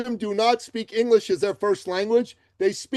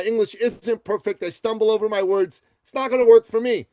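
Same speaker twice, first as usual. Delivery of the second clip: whiny doubter; 3 semitones higher than usual. Retold or imitated. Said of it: "people listening to this might go".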